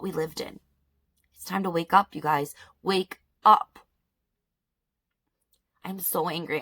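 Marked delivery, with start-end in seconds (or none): 2.8-3.8 urgent call. Real, not acted. Urging viewers.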